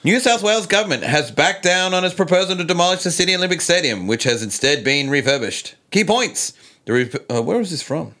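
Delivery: high, bright news-anchor delivery; reporter voice. Pretend. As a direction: read it like a TV reporter. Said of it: "my best impersonation of Gladys / reporter voice".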